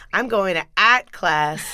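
put-on slow, strong Boston accent, dropped r. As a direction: drop the r like a Boston kid. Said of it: "very strong Boston accent".

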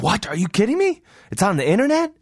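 high, loud disbelief; shocked inmate. Retold or imitated. Inmate shocked that fifis are online, high loud disbelief. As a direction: gasp it out in disbelief.

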